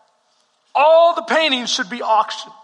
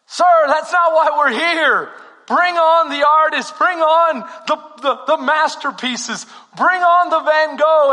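louder, higher, pushy demand from the crowd; impatient crowd shout; 4 semitones higher, 3 dB louder than usual. Acted. Bidder shouting at the auctioneer, loud and impatient. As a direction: shout over the auctioneer for the famous paintings.

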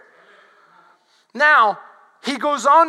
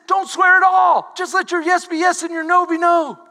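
emphatic command; 4 semitones higher, 4 dB louder than usual. Retold or imitated. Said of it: "That's why he says".

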